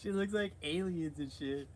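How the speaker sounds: high, giggling words; laughing while talking. Real, not acted. Vlogger mocking the preacher's face, laughing through it.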